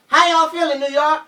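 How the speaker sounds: high, loud funk-frontman hype call; a funk singer yelling. Retold or imitated. Frontman hyping the New York crowd, high loud shout. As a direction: whip the crowd up like a funk star. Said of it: "I was a funk singer yelling".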